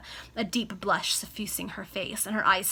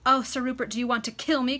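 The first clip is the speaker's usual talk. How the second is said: crying out; 4 semitones higher, 6 dB louder than usual. Acted. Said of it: "cried Cecilia, bursting into an agony of tears".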